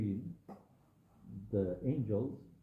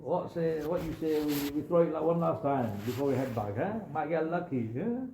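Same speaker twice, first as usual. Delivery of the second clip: higher, louder, a friendly nudge to try once more; Bob's coaxing voice; 6 semitones higher, 4 dB louder than usual. Retold or imitated. Bob eggs on his embarrassed companion for one last cast, high and loud. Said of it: "And so Bob goes".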